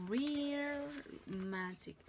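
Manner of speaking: slow, drawn-out wonder; awed. Shown as a demonstration. Teacher marvelling at the mushroom magic, slowly. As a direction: stretch it with awe.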